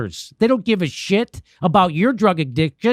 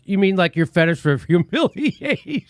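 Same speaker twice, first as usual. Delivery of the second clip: retold quote, laughing. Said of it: "He goes".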